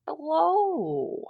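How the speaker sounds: clipped, guarded answer to a call; curt hello. Acted. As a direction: pick up like you're annoyed. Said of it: "is that how you answer?".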